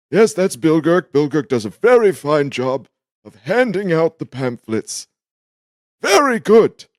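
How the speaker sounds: loud, high, emphatic temple host; temple greeter. Acted. Temple man praises his pamphlet helper, high, loud and emphatic. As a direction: heap praise in a high, carrying voice.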